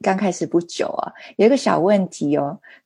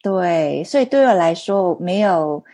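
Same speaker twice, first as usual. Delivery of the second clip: Mandarin with a non-native accent; halting Mandarin, foreign accent; foreigner speaking mandarin. Real, not acted. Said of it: "因为我中文不太好".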